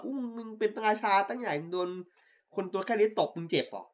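mock belittling. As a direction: taunt someone supposedly mighty, in play. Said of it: "มันข่มได้". (แกล้งเยาะเย้ยเสียงสูง)

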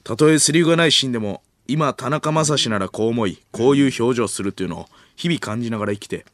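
lightly voiced intense acting coach; earnest, brisk instruction; 鈴木亮平. Lead actor coaching his co-star, earnest firm instruction. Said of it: "鈴木亮平の聖夜への演技指導がエスカレートしていく".

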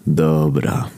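calm, level, unhurried interruption; slow down gently towards the end; soothing voice. Acted. Saviour cutting off the villain, soothing calm. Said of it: "odezwał się nagle najbardziej kojący głos".

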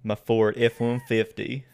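slow mock-Southern drawl; Southern accent. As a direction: draw it out like a Southern truck owner. Mock Southern truck owner.

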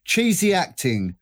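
slow, weighty poem recital; poem reading. Pretend. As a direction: read each line like verse. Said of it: "Try and read it like a poem".

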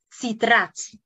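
citrats with an initial ts sound; Russian word as heard. Retold or imitated. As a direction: say citrats as the teacher said it. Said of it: "me dijo esta palabra". (citrats pronunciado como en ruso)

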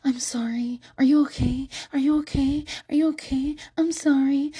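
mock an over-apologetic teen boy; lightly voiced fretful teenage boy. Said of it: "This is just a bunch of".

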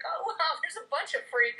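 mock wonder, lifted and loud; delighted discovery. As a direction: voice a happy surprise, playfully. Voices isolated women's delighted discovery.

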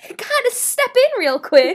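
a hint of a timid knock-on-the-door voice; mock polite interruption. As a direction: lightly play the awkward roommate barging in. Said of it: "I was, like, not about to knock and be like".

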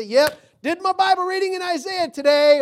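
loud, high, crowing announcement; mock self-satisfied declaration. Preacher mimicking a box-ticking Bible reader, loud and smug. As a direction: boast it out loudly like a chore ticked off. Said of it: "He didn't say".

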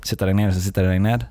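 fast repeat of the same phrase, "Sitter deg ned" tumbling out; rattled off fast. Shown as a demonstration. Teller repeats his own line to tease the viewer, said fast. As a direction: rush through it like a tongue twister. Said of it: "Poenget mitt er".

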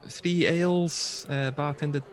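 high, chirpy hello then easing down; a bubbly tavern waitress; waitress greeting the adventurers, chirpy. Acted. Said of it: "She goes".

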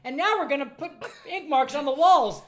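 mock kid voice announcing ink on the walls. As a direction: play an excited little kid. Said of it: "the kids will walk around".

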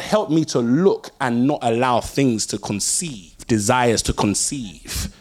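drawn-out, sincere plea to God; slow earnest prayer. Acted. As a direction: pray it slowly from the heart.

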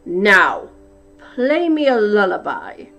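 loud giant roar. A narrator's reading. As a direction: roar for a lullaby. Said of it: "roared the giant".

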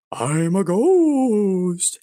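high, very drawn-out spooky voice; wailing ghost. Pretend. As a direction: stretch it out like a cartoon ghost. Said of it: "an actual live ghost".

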